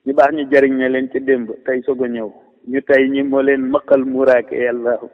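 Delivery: measured verse reading with falling refrain; poem recitation. Real, not acted. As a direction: recite praise verses line by line, dropping on the refrain. Recites own praise poem.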